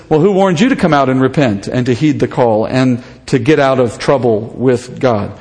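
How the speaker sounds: dry mocking question, dropping low at the end; sarcastic. John mocking the Pharisees, sarcastic and low. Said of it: "he says it entirely sarcastically".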